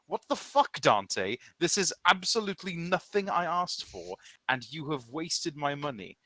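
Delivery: loud, high-pitched yelling rant; furious player. Acted. Player yelling at Dante over wasted money, loud and furious. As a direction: blow up at him in disbelief. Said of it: "And you're like".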